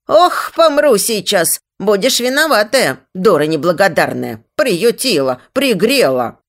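hammed-up groaning about dying; having a heart attack. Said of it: "схватилась за грудь".

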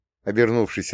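usual speaking voice

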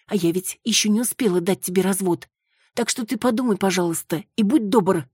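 a frightened woman begging her husband for help; Маруся pleading. Acted.

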